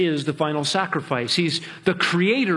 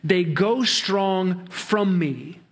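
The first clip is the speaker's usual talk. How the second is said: very slow, each word laid out evenly; slow literal reading; much slower than usual. Shown as a demonstration. Preacher giving the literal Hebrew, slow and deliberate. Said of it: "the Hebrew text reads".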